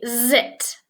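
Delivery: "zit" with a drawn-out buzzing z; buzzy Z. Shown as a demonstration. Teacher contrasts two words, "zit" buzzed slowly at the start. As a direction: lean on the voiced z of "zit". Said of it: "Zit is buzzy".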